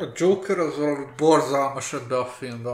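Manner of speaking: real muffled mumble through the palm; tenyerén át motyogva. Real, not acted. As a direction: mumble it into your hand in exasperation. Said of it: "a tenyerén keresztül motyogta". (tenyérbe temetett, tompa motyogás)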